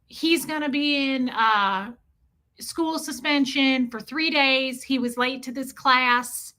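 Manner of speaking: put-on slow, drawn-out country accent; imitated country accent. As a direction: mimic the principal's thick country accent. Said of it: "this woman had a really thick accent".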